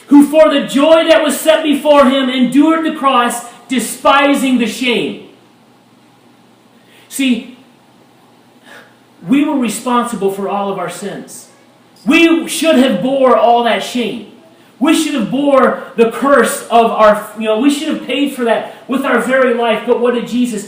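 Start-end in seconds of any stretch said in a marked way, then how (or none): 0.1-5.3 preaching shout. Real, not acted. Preacher reading verse at full force. 12.1-17.3 preaching shout. Real, not acted. Preaching climax.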